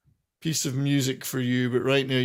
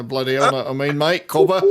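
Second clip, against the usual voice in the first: mock Australian accent; 5 dB louder than usual. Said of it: "they've got the same accent".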